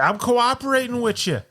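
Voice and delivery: high-pitched mocking of a defensive liar; mock indignant protest. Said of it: "He's like".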